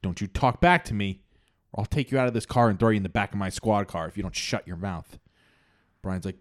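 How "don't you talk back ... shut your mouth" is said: angry cop. Retold or imitated. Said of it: "the cop's like".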